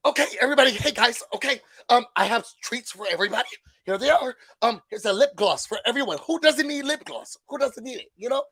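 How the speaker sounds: high, bubbly hostess voice handing out treats; mock-cheery party host; Ramona voice. Ramona handing out lip gloss to everybody, mock-cheery. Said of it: "here goes Ramona".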